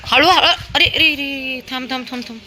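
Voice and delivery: high, loud alarmed call; warning call. Real, not acted. Mother warning running toddler, high loud alarm.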